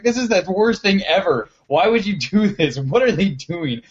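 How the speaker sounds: high-pitched retold frustration, easing down at the end; freaking out. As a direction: imitate a friend's exasperated rant without shouting. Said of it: "freaking out".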